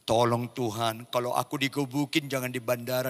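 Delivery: acted low, soft plea; softly voiced fearful wife; hushed pleading prayer. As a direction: plead quietly with God.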